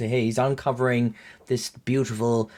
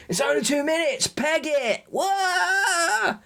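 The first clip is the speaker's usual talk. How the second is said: excited urgent shout; slower than usual. Retold or imitated. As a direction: yell at them to run for it. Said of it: "and goes".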